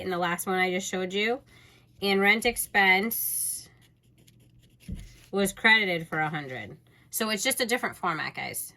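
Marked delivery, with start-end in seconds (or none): 2.0-6.8 slow, deliberate, spelling out each entry; slow dictation. Shown as a demonstration. Teacher showing students how to word the journal entry, slow and deliberate. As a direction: dictate it slowly so students can copy. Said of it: "but I would just say".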